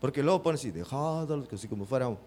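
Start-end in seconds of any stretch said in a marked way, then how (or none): 0.7-1.5 speech-like. Retold or imitated. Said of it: "como si estuviera dando un discurso".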